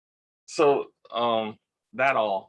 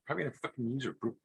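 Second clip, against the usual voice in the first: hushed, much softer, half-whispered gossip; mom's hushed warning; 9 dB quieter than usual. Retold or imitated. Mom warning him the witch is coming, in a hushed voice. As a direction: lean in and whisper the news. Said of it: "my mom says".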